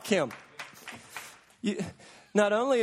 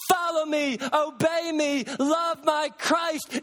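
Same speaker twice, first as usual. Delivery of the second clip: commanding God; 5 semitones higher, slower than usual. Acted. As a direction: proclaim each command. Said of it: "And God says to us".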